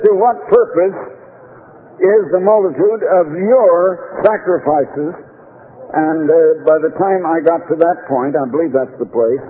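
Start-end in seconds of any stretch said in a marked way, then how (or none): 0.1-5.1 slow, measured Bible reading; solemn pulpit reading; scripture reading. Acted. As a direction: read the verse with weight. Reads scripture aloud.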